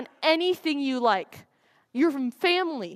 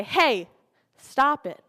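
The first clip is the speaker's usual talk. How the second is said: firm stop; 4 dB louder, slower than usual. Pretend. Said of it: "Going to the people who tease you and say".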